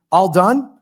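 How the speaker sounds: light clerk voice, rising question; clerk's question. Retold or imitated. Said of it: "asked the filing clerk".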